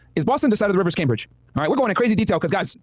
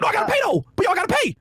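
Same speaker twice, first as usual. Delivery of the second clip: voicing Zokar; 13 semitones higher than usual. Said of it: "he's like".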